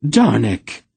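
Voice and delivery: loud, sharp call of his name; shout. A narrator's reading. Aunt Paul shouts at the smith to stop. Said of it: "Aunt Paul shouted".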